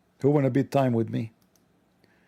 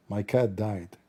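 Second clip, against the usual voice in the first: low, quiet, grave confiding voice; a hint of a gloomy naive man; solemn admin; 4 semitones lower, 4 dB quieter, slower than usual. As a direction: lower the voice like sharing a secret.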